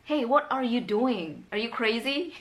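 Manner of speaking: slow, pointed mock disbelief; mild put-on incredulity; mock questioning. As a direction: question someone's sanity, lightly acted. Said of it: "So it's more like".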